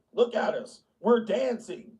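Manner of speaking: lightly voiced campaigning liberal; hint of look-at-us glee; pandering politicians. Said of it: "They be like".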